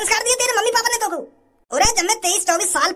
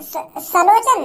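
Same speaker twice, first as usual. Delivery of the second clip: put-on child voice; 4 dB louder, much slower than usual. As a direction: play a preachy kid.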